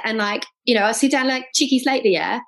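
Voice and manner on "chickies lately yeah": higher mock English accent ending on a rising yeah; English accent parody with a questioning yeah. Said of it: "the accents would just do my head in".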